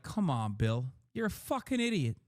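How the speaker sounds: high, hammed-up insults; mock Burr rant. Streamer imitating the comedian ranting at Bill, hammed-up. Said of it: "but even he's like".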